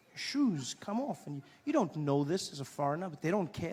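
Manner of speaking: ordinary delivery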